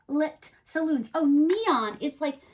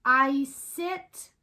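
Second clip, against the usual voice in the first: slow recited rhyme; slower than usual. Shown as a demonstration. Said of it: "make some rhymes".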